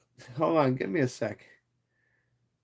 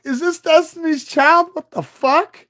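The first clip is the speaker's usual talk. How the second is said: much higher, louder disbelieving squeal; mock shocked squeal; 13 semitones higher, 6 dB louder, slower than usual. Streamer acting out his reaction to the song request. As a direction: shriek it like a startled fan. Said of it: "I'm like".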